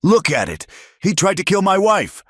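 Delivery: a husband raging that his wife was nearly killed; furious shout. Acted. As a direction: scream it, high and outraged. Husband yelling over burning barn.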